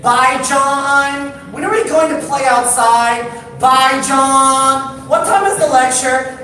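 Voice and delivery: high, loud, whiny little brother pestering; kid nagging big brother. Retold or imitated. Little brother pestering his older brother, high and whiny. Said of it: "he's like".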